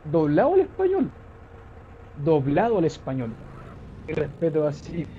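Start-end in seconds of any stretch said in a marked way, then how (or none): 0.0-3.3 loud outburst, pitched up then dropping; loud exclamation. Real, not acted. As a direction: blurt it out too loud for the mic. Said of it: "sonó súper fuerte en el micrófono".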